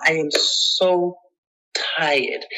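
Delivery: "tired" let out as a cracking, voiceless whisper; weary whisper. Retold or imitated. Recalling her exhaustion to the interviewer, tearful whisper. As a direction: drag "so" out slowly, then break into a whispered "tired". Recalling despair before coming out.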